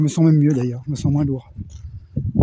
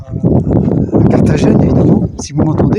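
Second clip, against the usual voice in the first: shouting over wind; 8 dB louder, slower than usual. Real, not acted. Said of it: "parce qu'avec le vent, c'est pas évident".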